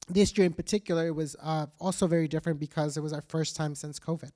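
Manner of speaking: hoarse, worn-out voice from talking; losing voice. Real, not acted. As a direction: voice giving out, a little rough. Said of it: "losing my voice now".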